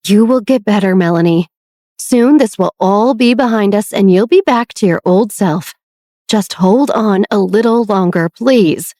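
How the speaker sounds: gentle, earnest promise to a sick sister; reassurance. Acted. Beatrix promising her sister she'll recover, reassuring. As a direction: soothe her through it. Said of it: "Beatrix continued to offer reassurance".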